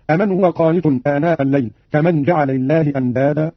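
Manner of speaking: "أمن" as a-man, short m; light single meem. Shown as a demonstration. Teacher demonstrates Qalun's reading, "أمن" with undoubled m. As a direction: say "أمن" without doubling or holding the m. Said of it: "بتخفيف الميم من أمن".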